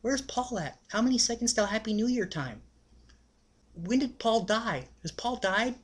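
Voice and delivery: high, slow, spaced-out questions; confused high squeaky friend voice; dazed high-voiced friend. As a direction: play the friend as totally out of it. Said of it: "he goes".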